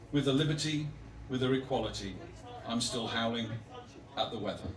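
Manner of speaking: deliberate spaced recital, gradually sinking; poem reading. Acted. Poet reading on letting go of dogs' leads, measured recital. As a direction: give each phrase room, easing down to the close.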